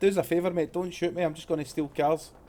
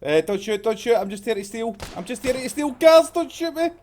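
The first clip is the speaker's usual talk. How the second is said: rising pleading shout, higher; panicked surrender shout; 3 semitones higher than usual. Real, not acted. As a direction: beg them not to shoot. Pleading with armed players.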